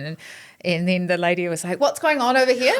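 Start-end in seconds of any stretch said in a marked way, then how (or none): 1.8-2.8 higher, lightly mimicked stage call-out; imitated comedian calling out. Comedian spotting whispering in the crowd, mock call-out. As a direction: mimic a comic picking on the audience.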